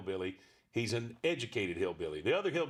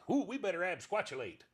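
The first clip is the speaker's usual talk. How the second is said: Buford voice; 7 semitones higher than usual. Acted. Buford example word of day.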